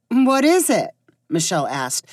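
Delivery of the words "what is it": hidden irritation. A narrator's reading. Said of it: "in a voice that tried to hide her irritation".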